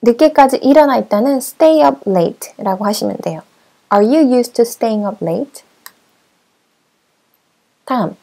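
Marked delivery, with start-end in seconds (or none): 3.9-5.6 very slow, clear model question; slow model sentence. Shown as a demonstration. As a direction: stretch each word so learners can follow. Repeated model answer.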